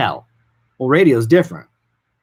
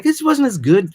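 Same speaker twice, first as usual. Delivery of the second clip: letdown; 11 semitones higher, 4 dB louder than usual. Retold or imitated. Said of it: "You're like".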